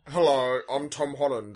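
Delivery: a light put-on voice of a young British actor; imitating Tom Holland. Friend imitates Tom Holland greeting fans, lightly voiced. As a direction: greet them as a polite Brit. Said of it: "That's how Tom Holland sounds now, uh, in my head".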